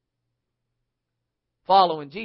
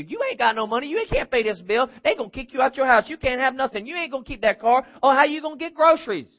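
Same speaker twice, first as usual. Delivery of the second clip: raised-pitch nagging taunts; mock screaming; 4 semitones higher, faster than usual. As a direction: badger someone with one worry after another. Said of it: "your account starts screaming at you".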